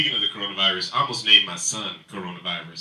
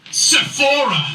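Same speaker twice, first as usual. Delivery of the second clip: loud, pitched-up blurt; shouted name; 9 dB louder, slower than usual. Real, not acted. Shouted suggestion.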